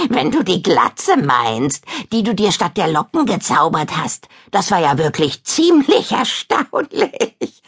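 teasing with a giggle; giggling. Acted. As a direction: laugh through the jab. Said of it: "kichert Abra".

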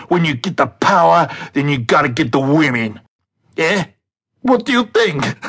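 lightly voiced Scarface gangster accent; a hint of Tony Montana swagger; Al Pacino Scarface. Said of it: "in Al Pacino's Scarface voice recited".

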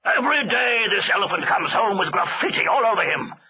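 high, exasperated mild shout; angry shout. A narrator's reading. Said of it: "shouted the elephant master".

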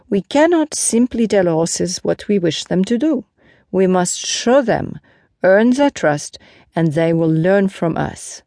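lightly voiced knight explaining to onlookers; a hint of a teacher-knight; Lancelot, earnest horseman.

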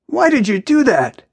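high-pitched, disbelieving question; incredulous. A narrator's reading. Jack laughing at Maya's failed drag, incredulous. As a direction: ask it in amused disbelief, pitch jumping up. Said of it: "he asks incredulously".

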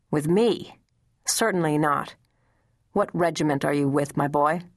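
a hint of the stern commander sending the boy off; understated commanding officer's voice; stern general's order.

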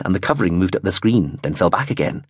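plain reading voice

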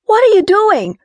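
high, loud panicked cry; near-shrieking in the dark; hysterical. Acted. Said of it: "Her voice sounded hysterical".

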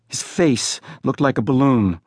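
ordinary delivery, nothing marked

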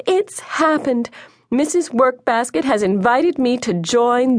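high-pitched, thrilled outburst; excited calling. A narrator's reading. Mother calls to her neighbour from the window, excited calling. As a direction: call out the good news, pitch soaring. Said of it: "called excitedly to Missus Wintergreen".

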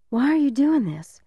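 high, scared pleading; a boy begging for an answer; frightened boy. Acted. Boy asks in fear.

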